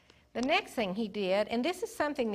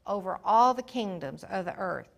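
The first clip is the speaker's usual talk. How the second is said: fervent prayer; 4 dB louder than usual. Acted. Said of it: "But he said".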